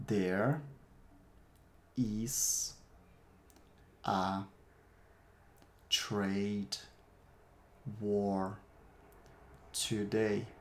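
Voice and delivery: slow, one word at a time with long pauses. Shown as a demonstration. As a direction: give each word alone for repeating. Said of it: "Repete aí".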